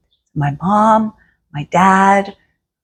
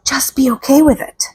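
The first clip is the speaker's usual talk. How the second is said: whisper; 5 semitones higher than usual. Shown as a demonstration.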